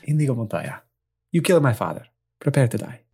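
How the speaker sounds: lightly imitated Spanish swordsman; Inigo Montoya. Player quoting the avenging swordsman, light Spanish accent. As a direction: quote it with a hint of Spanish accent. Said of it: "I just imagine I'm Inigo Montoya".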